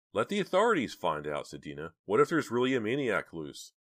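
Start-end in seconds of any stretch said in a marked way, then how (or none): 0.1-1.5 high, loud appeal; urgent arguing. A narrator's reading. Dina urgently argues against going. 2.0-3.7 high, loud frightened warning; alarmed. A narrator's reading. Dina horrified, argues against going.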